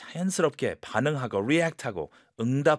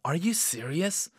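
half laughing; 6 semitones higher, much slower than usual. Shown as a demonstration. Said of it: "약간 웃으면서".

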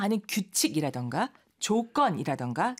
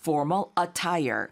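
slow repeat; 2 semitones lower, much slower than usual. Shown as a demonstration. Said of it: "repeating the phrase for learners".

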